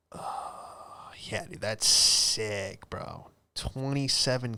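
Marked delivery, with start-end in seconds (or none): 0.1-3.3 mock fan drawl.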